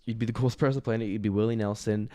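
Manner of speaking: fast, quiet rehearsal. Shown as a demonstration. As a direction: mutter it quickly like workshopping a joke. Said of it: "Let's keep workshopping this".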